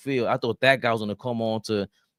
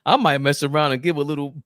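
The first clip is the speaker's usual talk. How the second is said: quoting Claus; 3 semitones higher, 4 dB louder than usual. Retold or imitated. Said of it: "Cleve Claw said".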